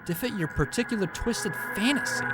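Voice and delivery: a hint of a broken yandere girl; Yuri, lightly voiced. Voices Yuri reading dialogue.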